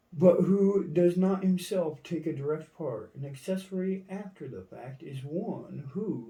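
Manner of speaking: lightly heightened dictionary-reading voice; formal reading. Acted. Reading a legal definition aloud, mildly declamatory. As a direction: read it out with swinging, emphatic intonation.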